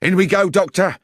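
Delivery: urgent call. Acted. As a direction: charge in, spurring him on. Lestrade bursting in.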